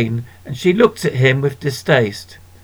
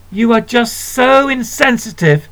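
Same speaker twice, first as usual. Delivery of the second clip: sharp, higher hissed rebuke; 8 semitones higher than usual. Acted. Sister scolding little brother, hissed rebuke. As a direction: hiss it at him with contempt. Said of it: "hissed Elaine".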